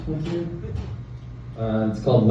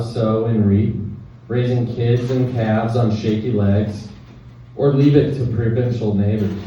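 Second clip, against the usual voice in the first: measured poem recital with short pauses; poetry reading. Acted. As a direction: read it as verse, line by line. Reads own poem aloud.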